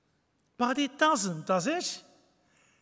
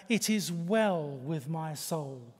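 tender; 5 semitones lower, slower than usual. Shown as a demonstration. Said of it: "that lovely hymn".

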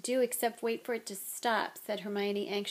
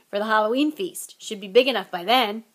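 happily; 7 dB louder than usual. Acted. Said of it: "said Hagrid happily".

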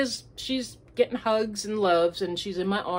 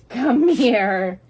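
calling the dog; 3 semitones higher, 8 dB louder than usual. Real, not acted.

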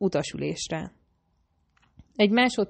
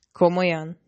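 growled; 4 dB louder than usual. Acted. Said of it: "mordult rám".

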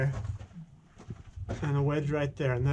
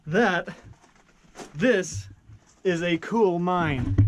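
excited; 3 semitones higher, 4 dB louder, much slower than usual. Real, not acted. Excited at finding cool mine.

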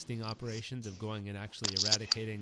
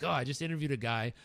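louder, indignant retelling; retold pissed off; 3 semitones higher, 6 dB louder than usual. Husband telling his wife about the sting operation, pissed off. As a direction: recount it with mock-fresh outrage. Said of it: "I'll just come out pissed".

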